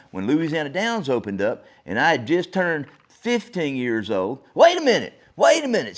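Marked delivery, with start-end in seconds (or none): 4.5-6.0 sudden realization. Real, not acted. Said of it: "catches himself mid-story".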